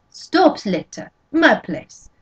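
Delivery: put-on lilting French-Canadian accent, slow start; sing-song Canadian old woman. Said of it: "her Canadian accent making the words sing".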